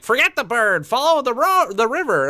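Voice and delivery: high, loud imitation of a wizard's order; hammed-up cry to follow; mock shouted command. Acting out an old wizard's command.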